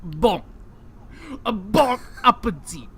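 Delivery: loud cartoon Frenchman offering food; mock French accent. Cartoon Frenchman mocking the American, loud hammed-up French accent. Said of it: "talking in a French accent".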